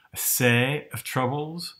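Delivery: the lecturer mimics Shakespeare-era West Country vowels in "a sea of troubles"; lightly voiced West Country burr, vowels rounded and broad. Explaining Shakespeare's accent to viewers, a light West Country burr. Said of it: "you hear that sort of West Country burr".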